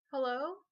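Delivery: "Hello" loud, rising sharply at the end; questioning hello. Retold or imitated. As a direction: imitate a voice asking "Hello" as a question. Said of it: "it said it, like, in a question mark".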